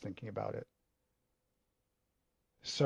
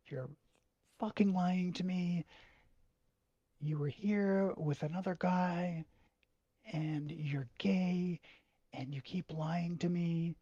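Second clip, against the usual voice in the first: higher, pressed mock fury with a hushed bit; imitating enraged dad; 6 semitones higher than usual. Father accusing his son of lying, in mock rage. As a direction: play the dad as furious, hissing the accusation. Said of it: "He was enraged".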